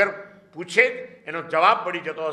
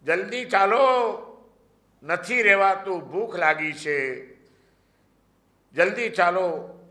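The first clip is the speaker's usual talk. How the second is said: calling out impatiently; 3 semitones higher than usual. Retold or imitated. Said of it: "અંદરથી બૂમ મારે છે".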